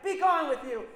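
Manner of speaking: loud, high witch yell; furious banishment. Acted. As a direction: hurl her out the door. Witch throws girl out.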